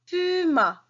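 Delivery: "Puma" sung out high with a falling end; high emphatic repeat. Shown as a demonstration. Teacher repeating "Puma" high for pupils to copy. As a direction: lift "Puma" high then let it fall. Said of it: "teacher models word".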